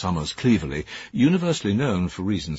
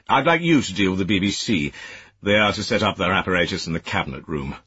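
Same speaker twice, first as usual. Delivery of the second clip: higher, louder reproachful officer; stern superior; 4 semitones higher, 3 dB louder than usual. Acted. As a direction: scold like a disapproving senior official. Cleverley gives orders.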